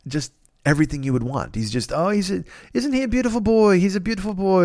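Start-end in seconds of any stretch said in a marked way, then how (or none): 1.9-4.6 higher-pitched fond praise; mock cooing as you pet a dog; doting on a dog. Retelling his hero petting a dog, doting.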